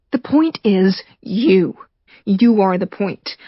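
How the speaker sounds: slow cold whisper. Acted. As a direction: hiss it slowly, menacing. Michael's cold reply.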